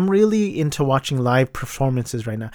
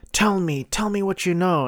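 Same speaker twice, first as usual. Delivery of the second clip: pitched-up, half-playful interrogation voice; mock threatening demand; 6 semitones higher than usual. Reviewer retelling a choking scene, raised mock threat. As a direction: lightly imitate a killer squeezing out answers. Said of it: "and he's like".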